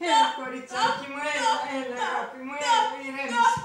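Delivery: pleading, soothing coax; calm the girl down, tenderly; coaxing a crying child. Acted.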